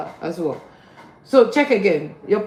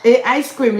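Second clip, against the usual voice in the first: incredulous echo; 3 semitones higher, 5 dB louder than usual. Retold or imitated. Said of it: "Is that what I heard you say?".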